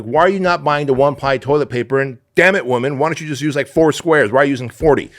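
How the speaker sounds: exasperated husband, hammed up; retold yelling. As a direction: rant at the wife in mock anger. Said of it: "yells at his wife".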